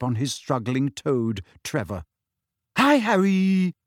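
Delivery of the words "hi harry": high, puffed-out greeting; panting. A narrator's reading. Neville greets his friends after hauling his trunk, panting. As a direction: greet them while out of breath. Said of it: "he panted".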